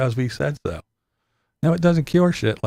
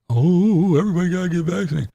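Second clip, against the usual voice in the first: mock announcer; 6 semitones higher than usual. Mocking people's vaccine push.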